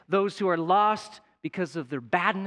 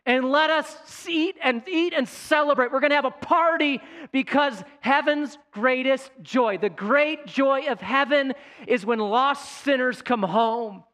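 loud, high celebrating call; the father calling everyone to feast; joyful father; 8 semitones higher, 5 dB louder than usual. Acted. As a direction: throw the party with your voice.

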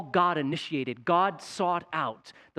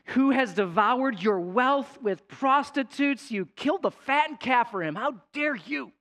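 accusing son; 6 semitones higher than usual. Acted. Older son accuses father.

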